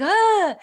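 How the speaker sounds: loud, high mock "ugh"; retold groan. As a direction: groan out your mock reluctance. Groan at being told to sit back.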